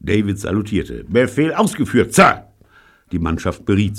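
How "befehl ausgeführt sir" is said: high, loud cheeky report; mock salute. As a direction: bark it like a saluting sailor. (zackige, laute Meldung)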